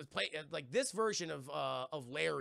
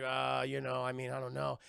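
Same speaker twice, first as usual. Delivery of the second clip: lower, hesitant shrug of a reply; mock unsure mumble; 5 semitones lower than usual. Man asked about his life plans, mock unsure. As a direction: dither in a lower voice.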